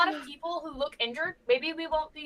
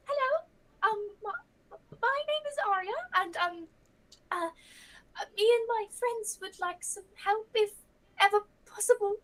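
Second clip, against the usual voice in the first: higher, timid and hesitant; nervous shy voice; 5 semitones higher than usual. Acted. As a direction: stammer politely like a scared newcomer. Nervous greeting at the door.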